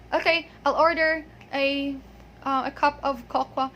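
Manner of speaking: mock order with cocoa turned into kokwa; mispronunciation. Teacher imitating an order natives would never make, mispronunciation. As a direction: say kokwa as KOK-wah in an acted order. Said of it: "They will never say kokwa".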